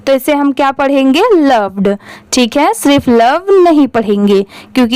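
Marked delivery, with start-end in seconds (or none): 1.3-2.0 लव्ड said with a clear d at the end; लव्ड ends on a heard d; d sound added. Shown as a demonstration. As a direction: add the d to लव्ड. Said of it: "बस अगर कहीं पर last में डी लग गया".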